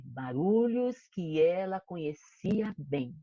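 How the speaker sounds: put-on expressive read-aloud for kids; story narration. A narrator's reading. Teacher reading the story to her class, expressive storytelling. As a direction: tell the dream like a fairy tale.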